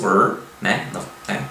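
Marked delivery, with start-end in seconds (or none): 0.0-0.4 "er" with a curled-tongue caipira R; "er" as a demonstrated retroflex R. Shown as a demonstration. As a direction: hold the R in "er", tongue tip curled back. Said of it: "com um R retroflexo".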